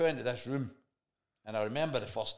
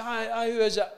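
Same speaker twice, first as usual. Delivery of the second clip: faked calm; 11 semitones higher, 10 dB louder than usual. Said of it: "kidding on, I wasn't shitting myself".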